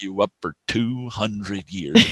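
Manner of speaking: slow, measured mock threat; lightly voiced interrogator, drawn out; security guy's threat. Quoting the security guy to Kirk, mock threat. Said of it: "even the head security guy".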